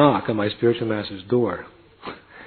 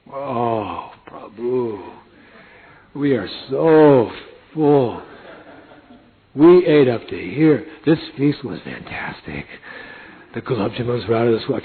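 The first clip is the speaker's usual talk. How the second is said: slow, drawn-out sated boasting; stuffed devotee; slower than usual. Retold or imitated. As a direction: gloat over a great feast. Devotees boasting about feast.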